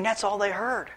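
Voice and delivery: ordinary talk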